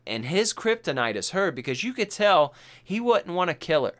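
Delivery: ordinary talk, nothing marked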